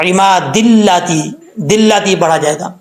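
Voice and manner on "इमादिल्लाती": "इमादिल्लाती" run together, d linked straight into the l; slow, connected Arabic reading of "इमादिल्लाती"; joined reading. Shown as a demonstration. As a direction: link it as "इमादिल्लाती" without stopping. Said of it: "अगर मिला के पढ़ेंगे".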